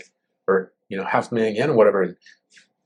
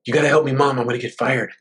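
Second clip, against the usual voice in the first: hurried son; 2 semitones higher, faster than usual. Retold or imitated. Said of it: "And they're in a hurry".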